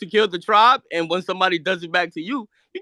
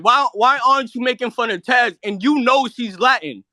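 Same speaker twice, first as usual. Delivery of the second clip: indignant, insistent questioning; heated challenge; 5 semitones higher than usual. Real, not acted. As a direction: press the accusation, pitch climbing. Heated demand in an argument.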